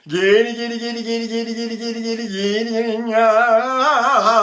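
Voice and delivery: high, rapid gaity drill; mock gaity exercise. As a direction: imitate singers drilling gaity. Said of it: "and they go".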